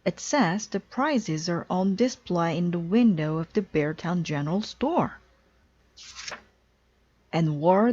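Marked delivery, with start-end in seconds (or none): 0.0-5.2 lightly voiced eager young cub, close to plain; a boy pointing out news to his sister; brother cub. Brother Bear telling sister what the sign says, mildly eager. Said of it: "said brother".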